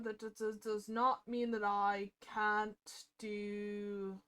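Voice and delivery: hammed-up, amateur British accent; bad British accent. Streamer consoling and chatting with viewers, bad British accent. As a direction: put on a shaky-quality mock British accent. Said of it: "talking in a very shitty British accent".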